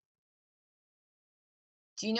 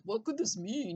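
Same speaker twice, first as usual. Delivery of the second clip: put-on Canadian accent; 4 semitones higher than usual. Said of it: "with a Canadian accent".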